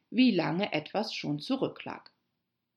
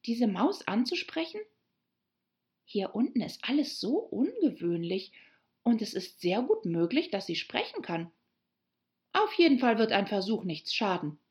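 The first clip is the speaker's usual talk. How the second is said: lightly voiced Alice, higher and lilting; nachdenkliche Alice; 4 semitones higher than usual. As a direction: reason it out to herself as Alice. Story figure Alice thinking. (nachdenklich, leicht erhöhte Mädchenstimme)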